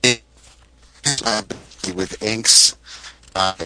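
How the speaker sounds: choppy dropping call line; breaking up call audio. Real, not acted. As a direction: voice cutting in and out. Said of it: "you're breaking up".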